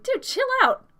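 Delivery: high, loud telling-off; acted friends snapping back at a screamer; exasperated retort. Game master as friends reacting to screaming, exasperated. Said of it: "and they're like".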